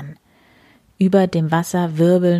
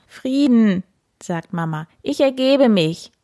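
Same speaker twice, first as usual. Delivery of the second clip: playful surrender; 5 semitones higher than usual. Acted. Mother cat playfully surrenders.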